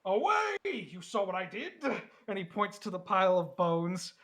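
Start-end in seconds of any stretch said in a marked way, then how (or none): 0.0-1.7 shrieking crab creature. Acted. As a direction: screech "Away!" at the strangers.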